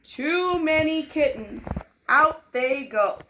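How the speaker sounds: dad declaring the kittens must go, stern; stern father. Acted. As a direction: lay down the law. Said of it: "Mister Dooley said".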